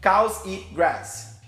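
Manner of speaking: "Cows eat grass" bem devagar, palavra por palavra; frase-exemplo de stress. Shown as a demonstration. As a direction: say "Cows eat grass" as three slow, separate stressed syllables. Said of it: "tem três sílabas". ("Cows eat grass" pausado, sílaba por sílaba)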